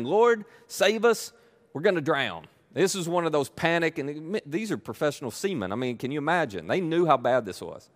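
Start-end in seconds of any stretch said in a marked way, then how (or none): 0.0-2.5 high, slow, pleading cry for rescue; panicked plea. Retold or imitated. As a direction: beg him to save them, drawn out and high.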